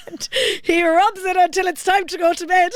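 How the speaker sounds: high, loud mock Cork accent. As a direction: quote her in a singsong Cork voice. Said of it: "She's a real Cork accent".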